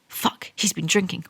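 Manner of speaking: unvoiced panicked whisper. Anna realising her boss is drunk, whispered. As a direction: hiss it under the breath in alarm. Reading Anna's inner panic.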